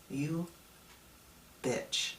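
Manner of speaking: quiet, breathy teasing jab, trailing to unvoiced; soft mock insult. Speaker repeating his jab to his younger self, softly. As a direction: say it softly, almost under breath. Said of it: "I'd say".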